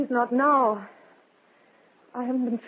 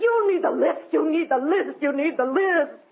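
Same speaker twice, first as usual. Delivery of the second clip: bitter repetition; 6 semitones higher than usual. Acted. Widow breaking down under pressure.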